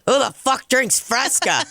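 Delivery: high-pitched imitation of a baffled customer; incredulous mocking. Old regular roasting bartender's soda, incredulous mocking. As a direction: scoff the question, pitched well up.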